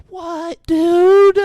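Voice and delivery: stunned what-the-hell reaction; incredulous. Retold or imitated. Viewer reacting to the captor, loud disbelief.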